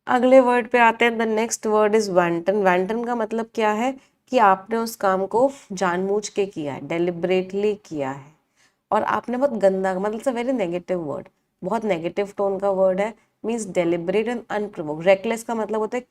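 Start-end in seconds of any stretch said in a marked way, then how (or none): 1.1-2.6 very slow, each word laid out for notes; slow dictation. Shown as a demonstration. Teacher reading the next word to the class, slow and deliberate. 13.4-15.1 slow dictation. Shown as a demonstration. Teacher dictating a definition.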